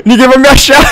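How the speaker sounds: taunting sing-song. Shown as a demonstration. Hiding streamer taunting seekers with Ninguém vai me achar. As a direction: tease them from your hiding spot. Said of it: "vou ficar escondido aqui".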